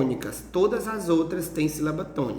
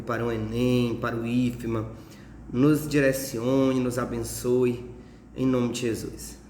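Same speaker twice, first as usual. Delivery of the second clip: low, measured prayer voice; 4 semitones lower than usual. Real, not acted. Teacher praying for his students before class, prayer. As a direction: pray simply, pitched a little low.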